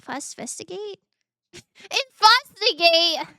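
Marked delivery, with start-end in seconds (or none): 1.5-3.3 high, loud, slow laughing fix; laughing correction. Real, not acted. After mangling the word, laughing correction.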